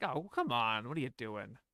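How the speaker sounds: mock condescending, put-on patronizing tone. Commenting on a performance, redoing a character's line: mock-condescending. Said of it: "much more condescending here. I like that uh, that tone".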